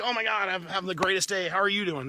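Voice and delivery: acting out an eager greeting to a friend; upbeat greeting. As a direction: sound thrilled to be asked. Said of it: "And you respond like".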